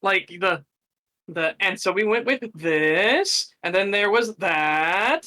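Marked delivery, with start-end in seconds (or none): 1.6-5.3 slow, droning imitation of the speaker; mocking his cadence. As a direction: drag out each clause like a dull presenter. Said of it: "is his tone and cadence, the way he, uh, like, speaks".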